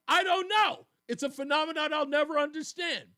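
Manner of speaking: high, loud helpless protest; hammed-up bewildered reply; mock bafflement. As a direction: throw up an exaggerated "beats me". Host acts out own baffled reply.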